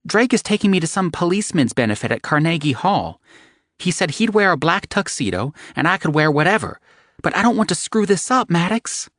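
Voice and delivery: high anxious babble; panicked rambling. Acted. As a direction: gush out her worries in a rush. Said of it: "she said in panic".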